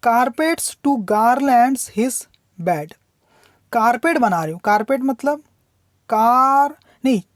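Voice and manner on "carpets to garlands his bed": poem reading. Shown as a demonstration. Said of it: "teacher reads poem line slowly".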